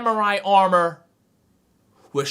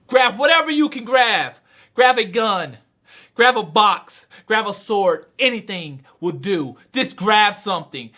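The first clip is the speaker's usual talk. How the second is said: retold yell; 3 semitones higher than usual. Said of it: "the guide starts to yell".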